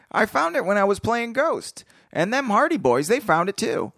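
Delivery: high, hammed-up gangster voice; overacted crook reading; hammy villain read. Reading villain dialogue aloud.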